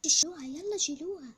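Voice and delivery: loud command to clear the plates; madam barking at servants; bossy order. Pretend. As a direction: order them to take the dishes.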